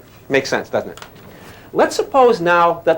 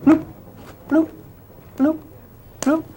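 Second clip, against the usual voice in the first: low bloops; 12 semitones higher than usual. Shown as a demonstration. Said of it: "Over here".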